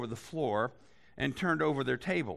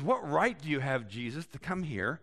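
a hint of smug priests, rising higher and louder; defensive religious leaders; 4 semitones higher, 3 dB louder than usual. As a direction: play the leaders brushing Jesus off. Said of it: "In other words".

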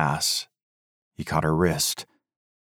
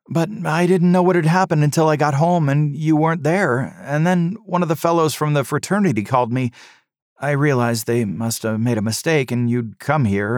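higher, calling son's voice; young man's voice; 5 semitones higher than usual. A narrator's reading. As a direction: call out as a young man. Son voiced.

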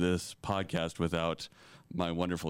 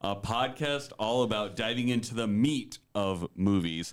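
sports announcer. Acted. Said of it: "You sound like a sports announcer".

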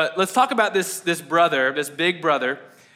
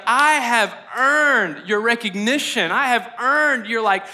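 higher, drawn-out insistence; emphatic, mildly exasperated protest; frustrated demand; 4 semitones higher, slower than usual. Acted. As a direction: act out pressing for what is owed. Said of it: "you felt frustrated".

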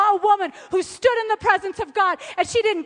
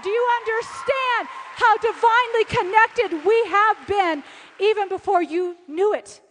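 high, raised voice easing off toward the end; impassioned question; 5 semitones higher, 4 dB louder than usual. Retold or imitated. Friend marvelling at divine connection, impassioned. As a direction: cry it out, then slow the closing words.

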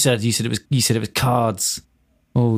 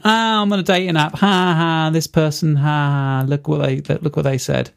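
mocking tweeters; 4 semitones higher than usual. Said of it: "tweets of people going".

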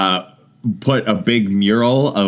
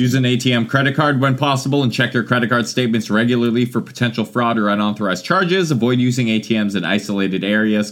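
reading advisory. Acted. Reads travel advisory.

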